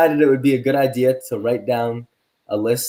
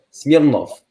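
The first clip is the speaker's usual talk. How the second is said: put-on Russian accent. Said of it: "in a Russian accent".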